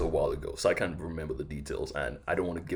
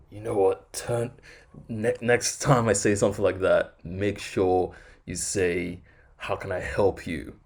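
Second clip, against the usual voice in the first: mock disdainful boss; 3 semitones higher, 4 dB louder than usual. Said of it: "disdain in his voice".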